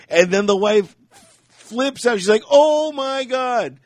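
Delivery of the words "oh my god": high, drawn-out British exclamation; slow, high-pitched British indignation; British accent. Retold or imitated. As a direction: put on a British wife's outraged "oh my" voice. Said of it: "all in a British accent".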